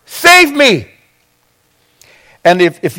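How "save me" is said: mock cry for help. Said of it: "he cried out".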